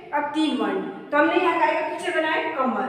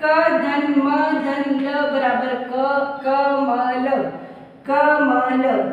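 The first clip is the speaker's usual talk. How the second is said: slow, syllable by syllable, "क धन म धन ल" each part spaced; slow sounding out; much slower than usual. Shown as a demonstration. Teacher showing pupils how to read the word, slow and spelled out. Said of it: "हम इसको पढ़ेंगे कैसे?".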